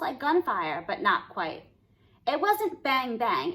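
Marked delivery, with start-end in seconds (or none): 2.3-3.5 bang sound. Shown as a demonstration. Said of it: "It was more like bing".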